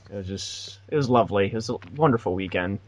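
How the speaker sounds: dry mock praise of a bad weekend; deadpan sarcasm about the early shifts; sarcastic. Real, not acted. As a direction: say it lovely but mean awful. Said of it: "I hope people can hear the sarcasm in my voice".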